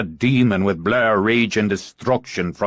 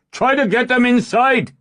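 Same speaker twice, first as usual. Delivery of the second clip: high, loud command; shout; 5 dB louder than usual. Acted. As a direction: bellow the order across the field. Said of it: "he shouted to her".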